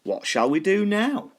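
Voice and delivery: high, bored skeleton; a skeleton asking what next; big skeleton voice. A narrator's reading. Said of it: "the big skeleton said".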